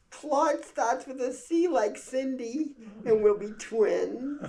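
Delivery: put-on very high, slow little-girl voice; sweet little girl. Small daughter explaining to mother, high slow girl voice. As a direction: sing it out like a sweet child.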